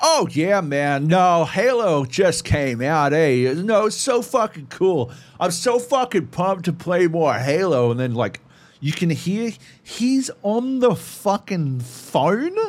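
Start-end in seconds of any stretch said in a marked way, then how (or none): 0.0-7.9 put-on American accent, male voice. Mimicking a guy heard talking about Halo, in a put-on American accent. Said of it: "I'm hearing some fucking American voice".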